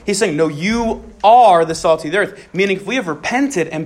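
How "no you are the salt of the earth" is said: are lifted and stressed; firm correction with are stressed. Shown as a demonstration. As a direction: insist on are. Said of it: "very emphatic statement".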